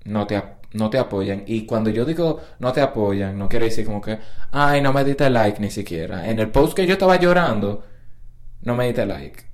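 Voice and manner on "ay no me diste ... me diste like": a hammed-up sulky reproach; mock whiny complaint. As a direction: pout it like an offended friend begging for likes. Mocking whiny friend's complaint.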